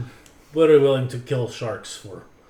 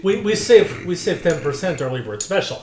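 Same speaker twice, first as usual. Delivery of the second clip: put-on broken-English accent; 2 semitones higher than usual. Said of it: "nobody else with an accent".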